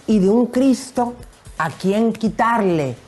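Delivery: grand poetry declamation. Pretend. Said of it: "voy a declamar con baile".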